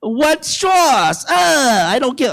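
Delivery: a hint of Seinfeld; mock Seinfeld. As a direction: drawl it like an old-school observational comic. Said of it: "Seinfeld could tell it better".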